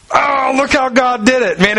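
high, excited exclamation; retelling a thrilled outburst at the mailbox, voiced high and excited; retold excited cry. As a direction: blurt it out with joy at the mailbox. Excited at God's miracle, mailbox.

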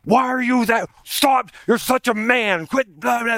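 high, whiny mock nag of a wife. Husband mimics his wife scolding him in a high mock nag. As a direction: squeak it out like a nagging wife. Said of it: "She's like".

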